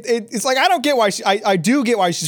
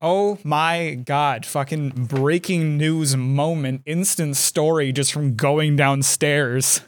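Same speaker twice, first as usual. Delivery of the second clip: winded, panting between words; out of breath; slower than usual. Real, not acted. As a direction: talk while still catching your breath. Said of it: "You gotta catch my breath".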